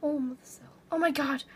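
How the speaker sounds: panicked shout. Real, not acted. Panicked gaming exclamation.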